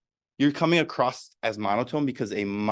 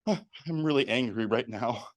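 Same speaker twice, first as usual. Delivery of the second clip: angry words said mild and soft; insincere anger; 3 dB quieter than usual. Shown as a demonstration. Demo of mismatched emotion, angry words said softly. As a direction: sound calm while claiming anger. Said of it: "didn't match up with the words".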